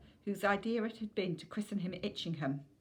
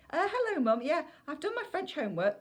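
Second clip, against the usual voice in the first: put-on nervous boy; 9 semitones higher, 5 dB louder than usual. Caught son answers nervously.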